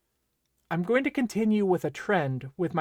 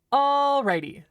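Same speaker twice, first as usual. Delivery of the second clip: excited; 9 semitones higher, 5 dB louder than usual. Acted. Perky restart after announcer.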